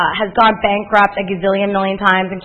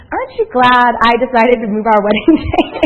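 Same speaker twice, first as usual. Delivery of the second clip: laughing tease; 4 dB louder than usual. Retold or imitated. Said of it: "He said".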